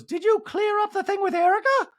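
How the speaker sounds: high, loud mock Dorit; Dorit impression. Recapper mocking Dorit raising Erica's issue, high. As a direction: stir the pot in a high Dorit voice. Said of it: "Dorit goes".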